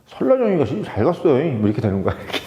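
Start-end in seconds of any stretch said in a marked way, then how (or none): 0.1-1.3 a clumsy, lightly imitated Jeolla accent; badly done Jeolla dialect. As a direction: try Jeolla dialect and miss a little. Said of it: "전라도 사투리 이상하게 좀 되네".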